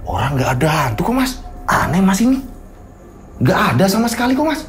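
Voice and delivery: lightly voiced calm biker; lightly voiced calm motorist.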